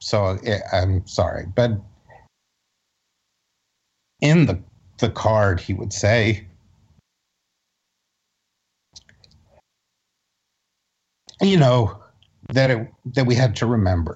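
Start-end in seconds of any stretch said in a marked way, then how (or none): 1.5-14.2 choking up with emotion. Recalling yearly Kristallnacht cards from a father: choked up. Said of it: "I'm getting a little choked up".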